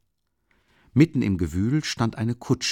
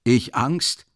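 higher, louder offended retort; indignant caretaker; 5 semitones higher, 4 dB louder than usual. A narrator's reading. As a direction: throw the word back at him. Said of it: "ernstlich böse".

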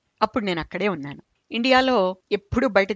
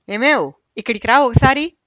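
higher, louder call across the shop; retold old man's shout, higher and louder; calling out to wife; 5 semitones higher, 6 dB louder than usual. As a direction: holler for the wife to come over. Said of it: "పెద్దగా భార్యని కేకేశాడు".

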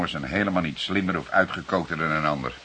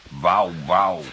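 mock wow call; 5 dB louder than usual. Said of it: "ontlaat hij zijn bewondering in dierlijke klanken".

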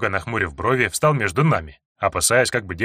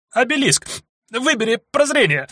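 всхлипывая шёпотом; 12 semitones higher than usual. Acted. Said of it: "Всхлипывая, прошептала Анька".

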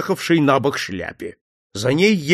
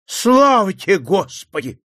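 joyful; 4 semitones higher than usual. Acted. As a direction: exclaim it in sudden relief. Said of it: "Радость, ликование послышались в голосе".

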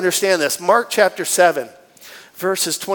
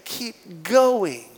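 much softer, steady urging; gentle Spirit voice; 8 dB quieter, slower than usual. Retold or imitated. The Holy Spirit encouraging the weary believer, much softer. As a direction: hush it like an inner voice. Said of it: "we hear the Holy Spirit say".

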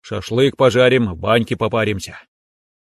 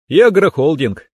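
higher, louder confirmation through a smile; smiling echo; 5 semitones higher, 5 dB louder than usual. A narrator's reading. Son-in-law confirming his farm holding to father-in-law, smiling. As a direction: repeat it back with a smile. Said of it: "улыбнулся я".

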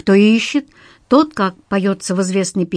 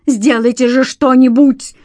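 loud, higher plea; panicked plea; 4 semitones higher, 5 dB louder than usual. A narrator's reading. Stas begging the detective to act, loud plea. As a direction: demand help in panic.

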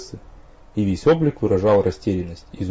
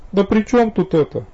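bitter; 11 semitones higher, 4 dB louder than usual. A narrator's reading. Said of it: "с горечью протянула девушка".

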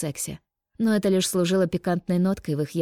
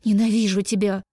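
«Ненавижу» shouted louder; 3 semitones higher, 4 dB louder than usual. A narrator's reading. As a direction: yell «Ненавижу тебя» with force. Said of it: "Выкрикивая".

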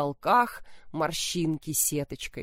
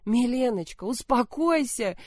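fussing soothing; 4 semitones higher than usual. Acted. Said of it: "засуетилась мать".

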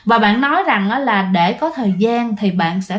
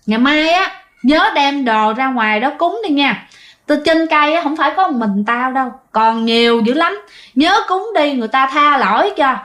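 higher, insistent ghost voice; departing spirit's warning; 3 semitones higher than usual. Retold or imitated. Spirit leaving Sáu's body, warning family, higher insistent voice. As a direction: remind them sternly before leaving the body. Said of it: "còn nói vậy nè".

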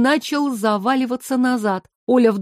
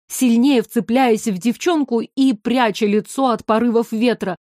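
ordinary delivery

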